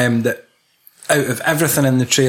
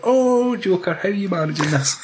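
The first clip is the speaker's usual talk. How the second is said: ratty Batman; 6 semitones higher than usual. Retold or imitated. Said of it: "He's getting a bit ratty".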